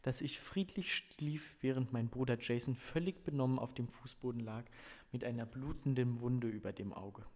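measured, expressive audiobook reading; story narration. A narrator's reading. Reader presents a family novel to listeners, story narration. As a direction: read the novel passage clearly to listeners. Reads novel passage aloud.

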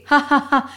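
acted, spelt-out "ha ha ha"; mock hearty laugh. A narrator's reading. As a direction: laugh in mockery, without real volume. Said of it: "உரத்த குரலில் சிரித்துக்கொண்டே".

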